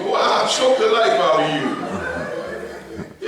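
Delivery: slow, laughing hammed-up threat; mock threat. Preacher quoting his wife threatening a child, slow and joking. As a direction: drag it out as a playful warning.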